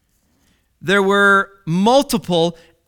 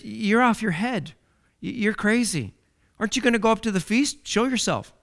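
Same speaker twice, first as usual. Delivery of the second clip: sarcastic; 3 semitones higher, 3 dB quieter than usual. Acted. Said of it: "They were sarcastic".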